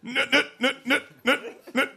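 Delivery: high, laughing wife voice; giggling through guesses; wife guessing. Retold or imitated. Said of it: "my wife went".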